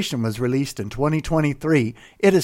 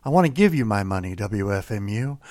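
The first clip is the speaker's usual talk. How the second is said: mock seductive murmur; 5 semitones lower than usual.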